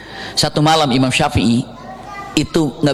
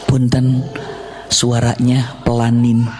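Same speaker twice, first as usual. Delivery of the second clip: polite request; 5 semitones lower, slower than usual. Acted. Imam politely asks for quiet.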